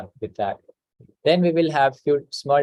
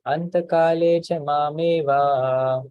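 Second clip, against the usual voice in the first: slow recitation; 3 semitones higher, slower than usual. Shown as a demonstration. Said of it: "one sentence at a time".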